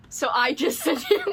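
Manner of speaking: laughing in the middle of the line; a giggle breaking through the words. Real, not acted. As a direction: laugh it out in disbelief. Realizing they sent the same gift.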